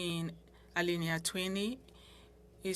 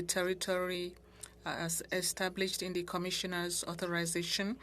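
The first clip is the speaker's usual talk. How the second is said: formal reading. Acted. Member reading an amendment aloud to the committee, formal measured read. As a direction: read the clause out formally, word by word.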